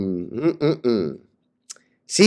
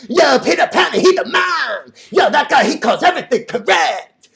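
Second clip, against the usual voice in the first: higher, hyped imitation of fans; mock fan praise; 7 semitones higher than usual. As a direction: mimic fawning followers cheering. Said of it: "They're gonna be like".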